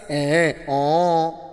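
scoffing pretend rebuke; hint of an impatient dismissal; mock dismissive Jesus. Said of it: "Jesus Christ not talk like that".

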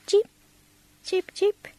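small high-pitched chirps; short, spaced high cheeps; faint bird cheep. A narrator's reading. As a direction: imitate a little bird, faintly. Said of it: "they heard a faint".

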